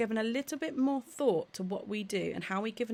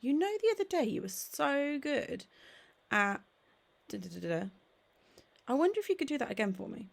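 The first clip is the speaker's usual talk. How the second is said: higher and quick, bubbly praise; playful encouraging tone; 3 semitones higher than usual. Shown as a demonstration. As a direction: coax the child with excitement. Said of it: "or I might say something like".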